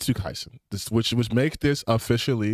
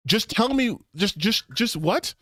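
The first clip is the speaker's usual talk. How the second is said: exasperated; 9 semitones higher than usual. Real, not acted. Exasperated rant at fans.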